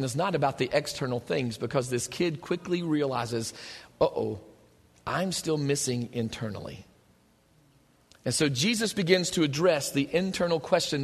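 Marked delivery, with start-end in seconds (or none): 4.0-6.8 hushed uh-oh. Retold or imitated. Kid's sudden realization, voiced.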